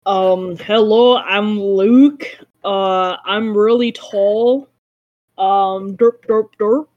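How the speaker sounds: lightly mocking imitation of the host; gently teasing impression, drawn out, ending in nonsense words; Luke. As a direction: put on a mildly dopey take on a friend introducing himself. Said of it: "do your best Luke impression".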